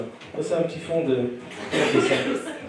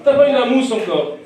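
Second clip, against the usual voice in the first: mock shock; 7 semitones higher, 6 dB louder than usual. Mock outrage at audience member.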